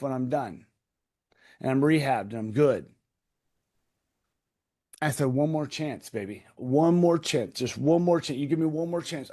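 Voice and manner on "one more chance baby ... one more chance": groveling plea. Retold or imitated. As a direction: beg your wife for one more chance. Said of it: "I'm groveling at this point".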